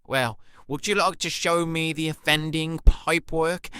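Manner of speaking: put-on posh English; posh accent. Client in role-play asks about pipework, posh accent. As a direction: speak as a posh lady of the house. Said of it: "I thought it was quite posh".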